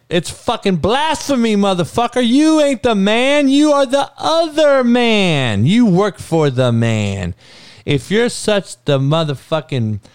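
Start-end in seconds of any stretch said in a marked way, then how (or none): 0.1-7.3 high-pitched, indignant rant; heated outburst. Real, not acted. Host berating a sports pundit as a sellout, heated outburst. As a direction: tear into him with your pitch way up.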